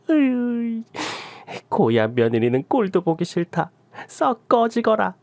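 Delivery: lightly voiced scornful old mother-in-law; mother-in-law dismissing. Mother-in-law orders daughter-in-law out, a hint of scornful dismissal. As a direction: shoo her off with mild scorn.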